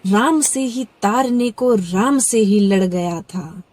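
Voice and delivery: measured, dramatic recital of a Hindi poem; poem recitation. Acted. Reciting a poem about Ram to viewers, dramatic recital. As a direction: let each line land, pausing between phrases.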